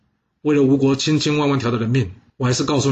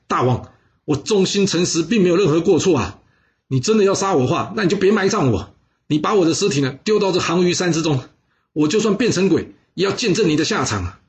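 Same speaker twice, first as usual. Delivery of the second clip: raised, defiant cry while being dragged off; loud plea; 5 semitones higher than usual. Acted. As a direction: curse the king with your last breath. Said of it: "他大声地喊说". (大声喊冤)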